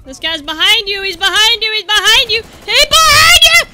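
rising from urgent call to high shout; panicked warning. Real, not acted. Gamer warning about the guy behind, building panic.

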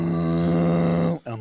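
high, loud sustained engine drone; engine noise. Retold or imitated. Hearing a car approach, imitated engine noise. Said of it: "I sort of just hear this".

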